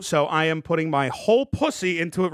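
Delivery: a hint of his old voice; lightly recalling how he used to talk; old catchphrase voice. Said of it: "Remember, I used to talk like that?".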